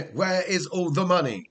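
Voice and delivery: lightly voiced football manager impression; slightly hammed-up manager's complaint; Antonio Conte. Streamer guessing at viewer's manager impression, lightly mimicked. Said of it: "You do a good Antonio Conte".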